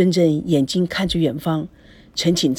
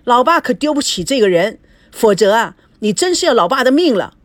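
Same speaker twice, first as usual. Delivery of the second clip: stern father, a bit higher, pressing; 4 semitones higher, 5 dB louder than usual. Acted. Father insisting his daughter must marry, stern and exasperated. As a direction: lay down the law as an exasperated father.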